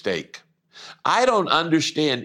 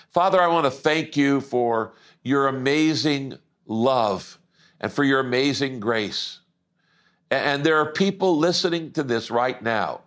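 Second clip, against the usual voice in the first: pastor's prayer. Acted. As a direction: pray over the congregation with devotion. Pastor prays aloud for listeners.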